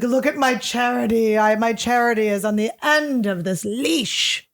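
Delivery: mock boast, stretching the last words; mock bragging. Comic mocking owners of three-legged dogs, bragging. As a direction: show off with a drawn-out, self-satisfied boast.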